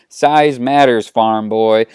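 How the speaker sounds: slow, emphatic put-down; eye-rolling retort. Acted. Han rolls his eyes at Luke, dismissive and emphatic. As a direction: push back with weary scorn. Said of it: "Han rolls his eyes".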